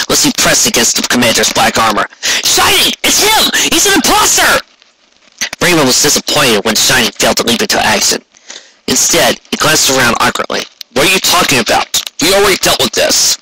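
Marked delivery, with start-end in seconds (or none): 2.2-4.6 much higher, urgent accusation; accusing Rainbow Dash. A narrator's reading. 10.9-13.4 lightly voiced puzzled stallion, a bit higher; a hint of awkward confusion; confused Shining Armor. A narrator's reading. Shining answers Rainbow confused.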